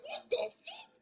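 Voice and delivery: high mock shocked crowd; shocked townsfolk. Townsfolk react to a Celestial Dragon, high shocked squeal. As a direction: shriek it like a stunned crowd.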